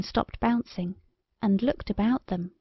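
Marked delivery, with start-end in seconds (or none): none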